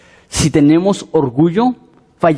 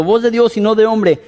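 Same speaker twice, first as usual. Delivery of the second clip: higher crowd acclaim; mock crowd cheer; 6 semitones higher than usual. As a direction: cheer the king, half-mocking. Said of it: "el pueblo aclamaba gritando". (aclamación de la multitud, en tono burlón)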